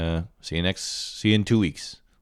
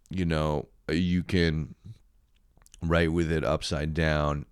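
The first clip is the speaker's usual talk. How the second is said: slow, deliberate product-pitch parody; mock sales pitch; slower than usual. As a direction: ham up the gadget ad, lightly. Mocking the gift's sales pitch.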